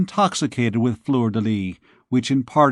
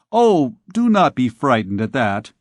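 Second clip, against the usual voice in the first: careless; 4 dB louder than usual. Acted. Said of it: "said Phoebus, carelessly".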